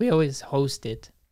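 voice breaking, cracking mid-line. Telling the other speaker about Christmas at home, voice cracking. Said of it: "Did you hear my voice crack just then?".

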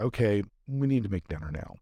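ordinary talk

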